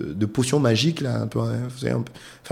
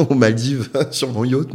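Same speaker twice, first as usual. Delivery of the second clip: laughing; 2 semitones higher, 5 dB louder than usual. Real, not acted. Joking about being rich.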